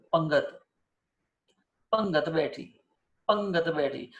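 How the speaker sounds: પંગત with the first a kept short; don't lengthen the પ in પંગત; short-vowel પંગત; short nasal a. Shown as a demonstration. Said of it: "દીર્ઘ નહીં કરો".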